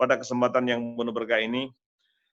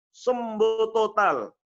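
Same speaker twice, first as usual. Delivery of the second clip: slow, higher "Sembuh total"; emphatic slow; 7 semitones higher, much slower than usual. Real, not acted. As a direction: lay each word down with wonder. Miracle told emphatically.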